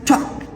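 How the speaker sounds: "Talk" with a puffed T and no puff on the K; aspirated T, unaspirated K. Shown as a demonstration. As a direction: puff the T of "Talk", hold back its final K. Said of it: "Both are present in this word".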